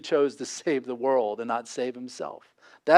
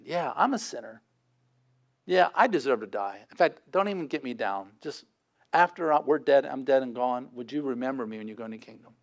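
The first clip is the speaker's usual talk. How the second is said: humble confession; 2 semitones lower, 6 dB quieter than usual. Retold or imitated. Thief confessing humbly to Jesus.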